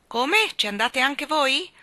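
high, loud astonishment; surprised admiral. A narrator's reading. The admiral asks the children, astonished. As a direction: bellow in disbelief. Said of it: "parve assai sorpreso".

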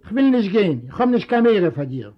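lightly voiced defiant old man; stubborn old father. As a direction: dig in like a proud old man.

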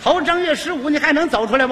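urging. Acted. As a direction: needle the other player to move. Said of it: "他这么一催呀". (不耐烦地数落对手)

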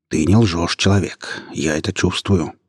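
a wild pack leader weighing a human; pack leader creature. Acted. The pack leader tests Yasmina's honesty, slow lightly beastly voice.

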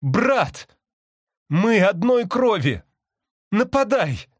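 high, insistent calling, sustained throughout; impassioned appeal. A narrator's reading. Sister bird invokes their shared blood, appealing urgently. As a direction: implore him in a high urgent voice. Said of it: "сестра продолжала ко мне взывать".

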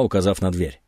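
ordinary delivery

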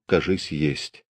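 soft, slow, low murmur; low half-voice. A narrator's reading. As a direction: say it half under the breath. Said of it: "вполголоса сказал".

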